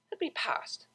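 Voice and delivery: sharp whispered command; whispered order. A narrator's reading. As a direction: hiss the order under breath. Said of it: "she ordered".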